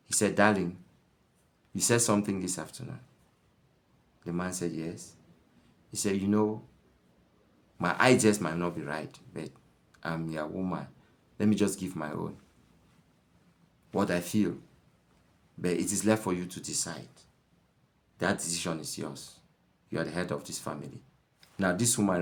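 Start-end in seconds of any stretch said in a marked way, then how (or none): 0.4-9.5 gentle wife. Retold or imitated. Gentle wife calms husband. 10.0-10.9 "I'm your woman" said softer and lower, humble; soft submissive wife. Retold or imitated. Gentle wife calms husband. 11.4-21.0 soft, lower, humble voice; gentle wife. Retold or imitated. Gentle wife calms husband.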